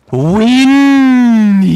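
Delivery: high, loud, long-held cry; loud wail on one long word; drawn-out shout. Real, not acted. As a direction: belt it out and stretch the vowel. Drawn-out shout while playing.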